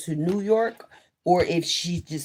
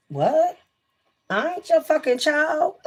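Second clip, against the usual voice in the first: high, loud indignant snap; mock outrage; 10 semitones higher, 3 dB louder than usual. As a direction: act offended, half joking. Retold quarrel with fiance.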